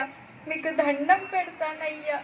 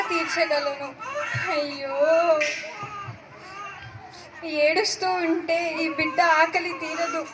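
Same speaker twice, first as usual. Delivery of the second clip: put-on tearful, raised cries over an abandoned baby; distressed crying woman. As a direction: choke up with pity and alarm. (ఏడుస్తూ ఆందోళనగా మాట్లాడే స్త్రీ)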